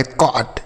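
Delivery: कॉट said alone with an open aw; correct open O. Shown as a demonstration. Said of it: "कॉट पढ़ेंगे". (कॉट में खुला ऑ, धीमे सुर में)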